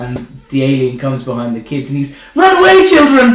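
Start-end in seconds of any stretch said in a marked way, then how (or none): 2.3-3.4 higher, louder put-on panicked scream. Retelling a film scene, a character yelling at the TV: imitating Joaquin Phoenix screaming. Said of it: "screaming into the T V".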